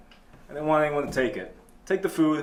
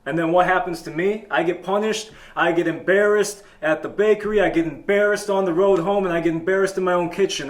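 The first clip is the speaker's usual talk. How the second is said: mildly hammed-up indignation, raised pitch; exasperated rant; 4 semitones higher, 4 dB louder than usual. Man finds a hair on his pizza and rants, exasperated. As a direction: complain as if the whole world is against you.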